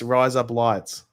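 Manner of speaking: "Rise Up Lights" said slowly; slow demonstration of "Rise Up Lights"; model for repeating. Shown as a demonstration. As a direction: draw out "Rise Up Lights" for the learner to copy. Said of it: "Just say it in your voice".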